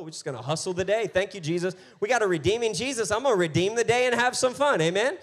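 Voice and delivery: rally the church, rising each line; preaching build. Acted. Pastor hyping the congregation, building loud and high.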